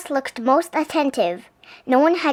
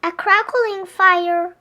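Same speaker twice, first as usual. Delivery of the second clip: ventured; 6 semitones higher, slower than usual. A narrator's reading. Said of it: "ventured the mouse".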